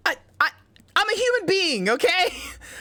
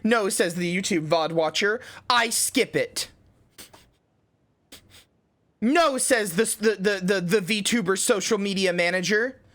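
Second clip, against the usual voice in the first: high cute streamer voice, dramatic; dreamy anime speech, slow and grand; 6 semitones higher, slower than usual. Acted. Dramatic mock monologue about dreams.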